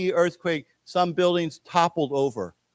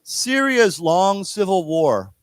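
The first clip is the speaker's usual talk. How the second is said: slow model phrases for repeating; reading together; 3 semitones higher, slower than usual. Shown as a demonstration. Teacher leading students reading together, slow careful model. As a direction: read slowly in careful chunks, leaving room to repeat. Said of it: "read this together".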